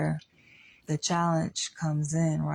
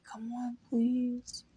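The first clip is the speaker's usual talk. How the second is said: mock pleading; 6 semitones higher, slower than usual. Men begging a woman, mock pleading. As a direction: plead in a raised, small voice. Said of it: "they just beg and they plead".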